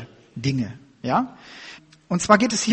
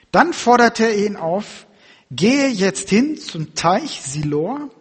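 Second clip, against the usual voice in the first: slow, raised Bible reading voice; scripture reading; 2 semitones higher than usual. Acted. Preacher reads the Gospel of John to church, solemn reading voice. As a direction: read the gospel out to the congregation.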